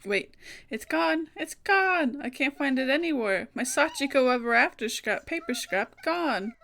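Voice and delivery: frantic realisation something precious is lost; a schoolgirl discovering her lost charm, panicked; panicked alarm. Acted. Mayu finds her charm missing.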